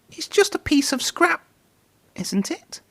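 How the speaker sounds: high, hesitant Percy; frightened engine unsure; nervous. A narrator's reading. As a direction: stammer it hoping for reassurance. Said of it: "said Percy, nervously".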